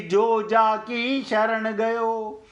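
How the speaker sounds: slow, drawn-out verse recitation; दोहा पाठ. Acted. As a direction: recite the couplet slowly, stretching each phrase. दोहा सुनाते हैं. (धीमे, खींचकर दोहे का पाठ)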